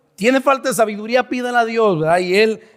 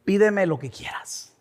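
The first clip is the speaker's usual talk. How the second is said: soft, hushed divine offer; voice of God; 6 dB quieter than usual. Acted. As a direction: say it quietly, letting it trail off. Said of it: "que Dios te diga así". (voz de Dios, suave y baja)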